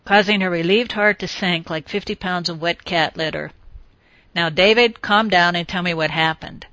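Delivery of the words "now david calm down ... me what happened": brisk order. Acted. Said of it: "she ordered briskly".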